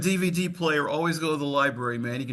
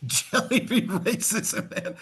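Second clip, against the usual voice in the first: slow, drawn-out mock sermon voice; mock preaching; 6 semitones higher, much slower than usual. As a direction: announce it slowly like a preacher. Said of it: "You preach".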